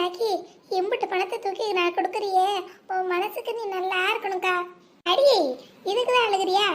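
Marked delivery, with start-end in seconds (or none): 5.1-6.7 fond exclamation. Acted. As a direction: laugh off her tears fondly. Teasing her tearful sister. (செல்லமாக கடிந்து கொள்ளுதல்)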